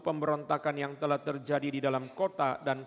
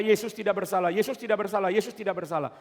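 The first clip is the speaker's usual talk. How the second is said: loud, higher insistent plea; Pilate insisting; 5 semitones higher, 5 dB louder, faster than usual. Retold or imitated. Pilate tells the crowd Jesus is innocent, loud insistence. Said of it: "Pilatus tiga kali berkata".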